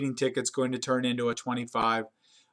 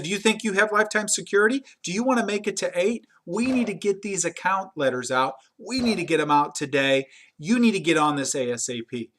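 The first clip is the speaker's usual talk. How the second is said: threatening boss; 4 semitones higher than usual. Retold or imitated. Manager threatens assistant.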